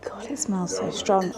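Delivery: hushed whisper, breath only. Real, not acted. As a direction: whisper it in shock at the smell. Smelling a strong drink.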